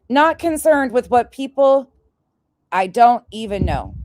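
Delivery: mocking quote. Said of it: "this is what she wrote".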